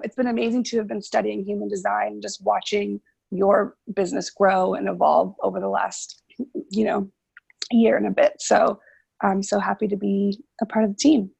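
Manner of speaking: hoarse, sick voice; raspy whisper. Real, not acted. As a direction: push words through a sore throat. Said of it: "I'm a little under the weather".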